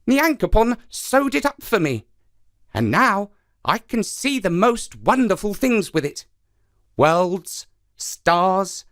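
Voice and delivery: high, sly spider voice; lively trickster spider, eager and sly; Anansi the trickster. Acted.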